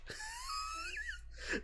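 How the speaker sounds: soft high-pitched laugh. Real, not acted. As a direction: let out a quiet, high wheezing laugh. Laughs at drunk passed out.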